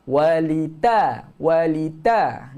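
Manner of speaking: walita with a thick heavy ta; wrong heavy ta. Shown as a demonstration. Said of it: "Jangan walita".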